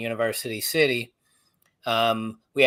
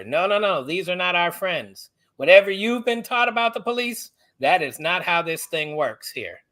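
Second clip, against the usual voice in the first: higher-pitched, insistent mock lecture; lecturing friend; 4 semitones higher than usual. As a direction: retell a friend firmly setting you straight. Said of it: "had to give me the lecture".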